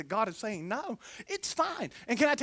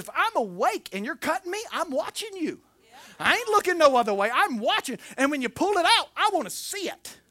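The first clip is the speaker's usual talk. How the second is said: higher, louder, stubborn refusal; insistent defiance; 6 semitones higher, 3 dB louder than usual. Retold or imitated. Patient telling the surgeon he will watch, insistent.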